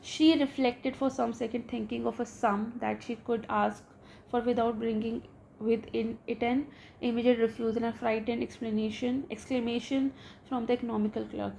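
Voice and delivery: slow, careful reading aloud of a story. A narrator's reading. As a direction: read each English word out slowly for the class. Reads the English story slowly.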